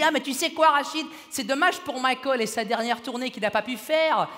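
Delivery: gushing regret, mildly put on; imitated lady fan. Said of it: "une dame m'a vu, elle m'a dit". (imitation légère d'une dame suisse)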